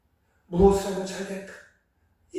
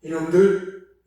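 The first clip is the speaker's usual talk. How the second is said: slow, louder stern rebuke; mock reproach of disobedient disciples; scolding call; 5 dB louder, much slower than usual. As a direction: drag it out like a scolding master. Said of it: "이렇게 부르지 않으세요".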